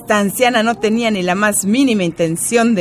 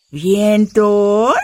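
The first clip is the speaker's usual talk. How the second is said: put-on old grandma voice. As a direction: play the elderly grandmother. Grandma mishearing.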